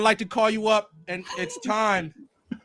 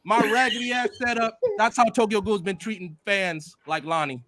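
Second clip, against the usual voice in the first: solemn preacher addressing the congregation; hammed-up funeral sermon voice; eulogy for a fan let down by Tokyo Ghoul; mock preacher eulogy. Sermon continues.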